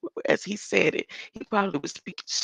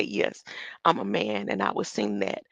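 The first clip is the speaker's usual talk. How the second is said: much lower, put-on manly voice; mock compliant man; 10 semitones lower than usual. Acting out the brainwashed singer agreeing to sing, mock compliant. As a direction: drop low, play the obedient singer.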